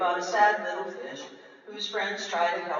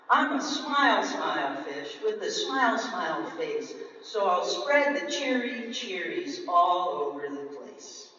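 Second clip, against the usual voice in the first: cheery fish; 4 dB louder than usual. Acted. Fish now happy.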